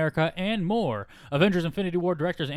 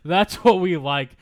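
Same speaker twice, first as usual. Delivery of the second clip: slow drawled nerd impression; country twang creeping in; twangy nerd voice; 3 semitones higher, 7 dB louder, slower than usual. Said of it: "come off as twangy".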